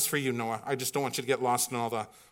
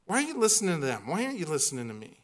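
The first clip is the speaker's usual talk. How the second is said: arguing plea; 2 semitones higher, much faster than usual. Acted. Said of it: "starts to argue like a Philadelphia lawyer".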